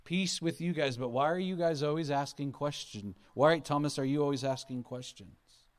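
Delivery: a mock exasperated teacher; exasperated scolding. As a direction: scold a disciple who keeps asking. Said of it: "He doesn't say that at all".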